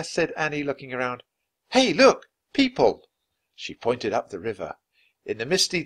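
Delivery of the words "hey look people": high, loud, urgent discovery; excited calling out. A narrator's reading. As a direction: call your brother to look, pitched high. Annie spots people by the river.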